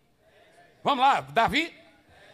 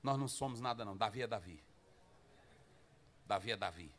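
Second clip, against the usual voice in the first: low, soft humbled warrior; awed old warrior; 13 semitones lower, 13 dB quieter than usual. Acted. Big warrior conceding David is greater, low and soft. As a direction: murmur it in awe of David. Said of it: "Aí o guerreirozão".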